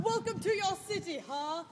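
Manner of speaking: harsh, bitter laughter into the line; hard bitter laugh. Acted. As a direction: laugh bitterly, then sneer the greeting. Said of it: "With a hard, bitter laugh".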